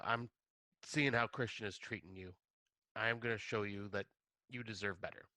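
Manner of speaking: softly trailing, understated reassurance; gently unforceful. Retold or imitated. Pele showing her she deserves better, gently. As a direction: voice a friend's quiet, unpushy support. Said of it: "overly forceful about it".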